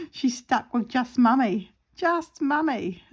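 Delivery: mock pity. Pitying her dog.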